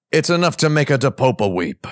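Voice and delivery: mock Italian accent. Quoting Adam Driver's movie line to co-hosts, mock Italian accent. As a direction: put on a playful Italian accent. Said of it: "there's a part where he says".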